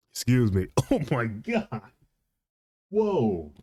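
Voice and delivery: recovering from a choke; breathless after swallowing wrong; water down wrong pipe. Real, not acted. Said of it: "Water goes down the wrong pipe".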